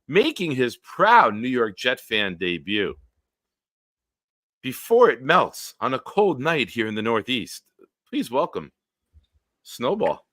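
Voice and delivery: drawn-out guest intro with lifted key words; announcer introduction. Acted. Host introduces a guest on the stream, announcer style. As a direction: build up the guest's entrance.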